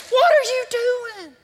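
God asking the worried pastor, loud and slow; God's voice. Acted. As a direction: boom it out as God calling him on it. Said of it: "God just wants to say".

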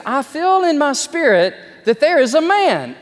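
high, loud prophetic call from the pulpit; preacher's proclamation. Retold or imitated. Preacher Spurgeon calls out to his crowd, high and loud. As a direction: ring it out like Spurgeon sensing a man. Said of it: "and he goes".

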